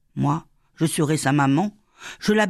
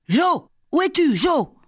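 panicked calling; 12 semitones higher, 4 dB louder than usual. Acted. Mother searches for lost child.

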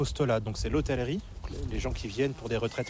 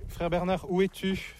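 higher, carrying call across the courtyard; 6 semitones higher than usual. Real, not acted. Monk calling across the abbey grounds for Brother Bernard, raised call. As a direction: call out to find him somewhere on the grounds.

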